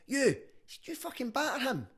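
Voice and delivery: high, loud angry father; angry dad. Retold or imitated. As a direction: confront him like a furious dad. Dad confronts boy.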